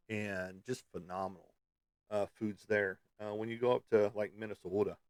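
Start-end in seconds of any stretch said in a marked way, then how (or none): 4.4-5.0 Minnesotan accent. Shown as a demonstration. Telling viewers how Minnesota should sound, in a Minnesotan accent. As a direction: say Minnesota the Minnesotan way, long sing-song o in the middle. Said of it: "you gotta say it like that".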